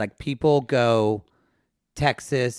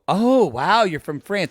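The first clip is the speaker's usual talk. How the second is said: mock impressed; 5 semitones higher than usual. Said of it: "people go".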